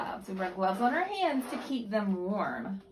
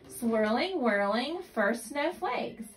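reading aloud; 3 semitones higher, slower than usual. Acted. Reading picture book to child.

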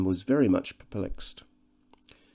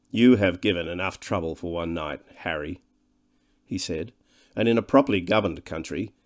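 stern master; 2 semitones lower than usual. Acted. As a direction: scold the boy coldly. Weston scolds the boy.

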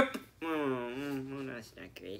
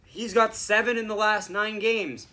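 mock broadcaster; 6 semitones higher, 6 dB louder than usual. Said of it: "They'll be like".

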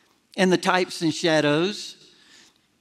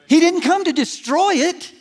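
preached emphasis; 8 semitones higher than usual. Shown as a demonstration. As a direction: preach it with full force. Repeats the point, preached up.

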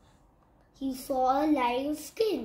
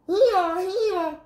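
mock donkey bray; 6 semitones higher, 7 dB louder than usual. Hedgehog imitates donkey bray.

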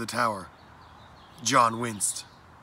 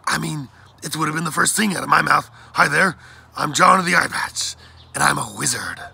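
loud, higher, showy mock introduction; excited gushing; 4 semitones higher, 8 dB louder than usual. A narrator's reading. Blackbird imagining introducing himself as a wizard, excited. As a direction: announce it with big excitement.

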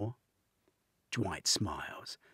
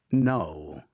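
firm insistence; 10 dB louder than usual. A narrator's reading. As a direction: shut it down firmly. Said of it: "Dwight insists".

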